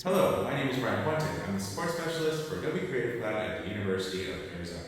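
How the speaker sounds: echoing like a big hallway; big drum room reverb. Shown as a demonstration. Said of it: "like you were in a big hallway".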